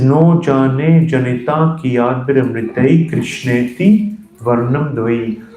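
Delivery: Sanskrit line intoned slowly; slow devotional verse reading; slow verse recitation. Acted. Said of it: "And then he says".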